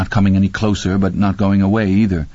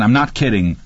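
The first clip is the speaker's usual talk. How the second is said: raised voice. Acted. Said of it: "raising his voice again".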